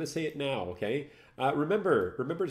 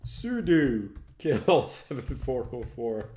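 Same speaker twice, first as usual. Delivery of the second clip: laughing; 3 dB louder, much slower than usual. Real, not acted. Laughing while typing a command.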